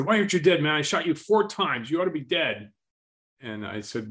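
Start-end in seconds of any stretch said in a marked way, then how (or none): 0.0-2.7 high, loud, incredulous yell; disbelieving shout. Retold or imitated. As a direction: demand an answer, rattled. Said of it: "he said".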